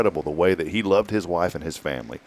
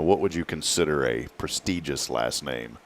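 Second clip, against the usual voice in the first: softer, lower, harmless asking; not hateful; 5 semitones lower, 7 dB quieter than usual. Real, not acted. Host carefully asking co-host about local family names, not hateful. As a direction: ask it gently, without any edge. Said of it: "I'm not saying this hatefully".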